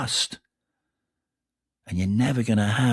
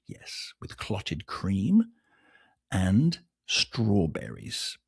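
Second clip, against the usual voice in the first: mock posh British accent; 5 semitones lower, 6 dB quieter, much slower than usual. Mocking English tea stereotype.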